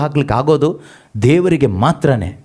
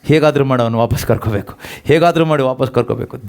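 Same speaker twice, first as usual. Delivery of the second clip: grieving God; 6 semitones lower than usual. Retold or imitated. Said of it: "ಅಳ್ತಾ ಕೂತ್ಕೊಂಡ್ರು".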